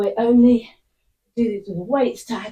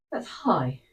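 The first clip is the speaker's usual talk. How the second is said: whisper; 5 semitones lower, 4 dB quieter than usual. Real, not acted. Breathless after heart rate spike.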